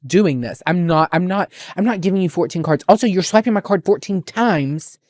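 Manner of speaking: mock sassy pissed. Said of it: "I was so pissed that I was like".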